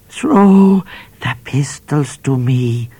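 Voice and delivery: a mild mock snarl from the bush. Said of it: "snarled the voice in the bush".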